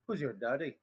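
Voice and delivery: put-on reading a meme in a lively Irish accent. Streamer reading an Irish meme to viewers, Irish accent. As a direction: tell the joke like a Dublin lad at the pub. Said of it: "I mean, like, real Irish".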